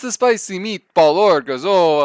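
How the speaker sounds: high, loud valley-girl cartoon whine; Lumpy Space Princess voice. Everyone doing LSP voice.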